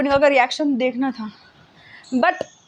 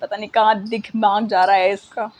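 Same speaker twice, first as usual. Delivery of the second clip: mock tearful mom; 7 semitones lower, 3 dB quieter than usual. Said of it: "mummy रोते-रोते कहती है".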